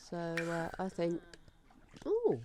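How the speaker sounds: chewing crunchy snacks; talking while munching crisps; crunching chips. Real, not acted. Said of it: "I'm crunching in your ear".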